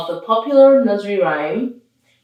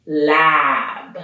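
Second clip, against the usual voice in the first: slow reveal; much slower than usual. Shown as a demonstration. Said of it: "Mary Had a Little Lab".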